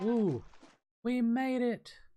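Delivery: high, loud, delighted cheer.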